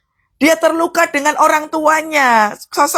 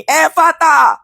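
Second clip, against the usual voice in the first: ringing order, pitched up; commanding prayer; 3 semitones higher, slower than usual. Shown as a demonstration. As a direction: call it out as a command. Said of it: "Jadi doa itu seperti Tuhan Yesus ini".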